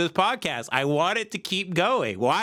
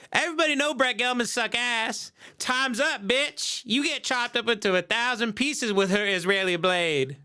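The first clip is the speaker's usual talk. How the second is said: higher, mock righteous crowd taunt; acting out a fed-up public, pitched up; imitated indignant supporters; 5 semitones higher than usual. Supporters jeering the dead husband, mock indignant. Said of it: "They're like".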